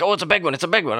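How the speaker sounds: high, eager hushed excitement; excited. Retold or imitated. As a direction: pitch jumps up, thrilled but keeping it down. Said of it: "He's like".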